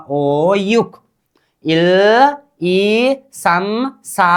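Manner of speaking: slow, drawn-out syllables for learners to repeat; teacher's slow repeat-after-me count; pronunciation drill. Shown as a demonstration. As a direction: model each Korean number, stretching the vowels. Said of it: "अब उच्चारण कीजिए आप लोग".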